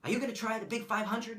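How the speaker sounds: put-on quoting the coach in a Boston accent; light Boston coach voice. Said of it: "he has this thick Boston accent".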